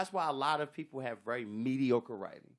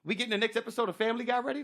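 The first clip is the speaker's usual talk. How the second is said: mock sarcasm; 8 semitones higher, faster than usual.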